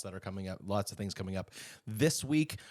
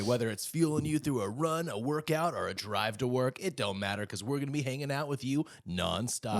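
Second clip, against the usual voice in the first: morning show voice; 2 semitones higher than usual. Acted. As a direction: sell it like a cheesy morning DJ. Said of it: "This is my morning show voice".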